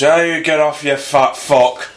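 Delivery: mock insult. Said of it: "And it's just".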